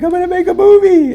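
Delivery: high, tearful crying voice, pitch cracking up; crying to wife. Retold or imitated. Telling his wife through tears he'll make a movie, high crying voice. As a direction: sob it out overwhelmed with joy. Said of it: "So I'm crying".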